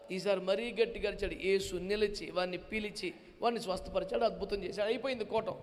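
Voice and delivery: usual speaking voice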